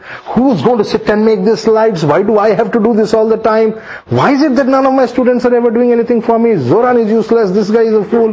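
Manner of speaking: teacher hamming up a moan about his students; mock complaining. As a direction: whine about the endless work, half joking. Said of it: "half the time I'm crying".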